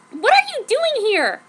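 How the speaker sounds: high, loud yell; narrated yell. A narrator's reading. Joan yells at Ward in her room, shouting. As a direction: shout it at the intruder in surprise. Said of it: "I yelled at him".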